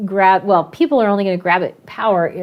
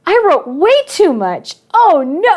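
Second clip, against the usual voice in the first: put-on higher, louder voice of a kid in a panic; panicked kid; 8 semitones higher, 4 dB louder, slower than usual. A student voicing panic over the word count, in a higher and louder voice. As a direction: play the student realizing the story is far too long. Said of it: "so then I hear this".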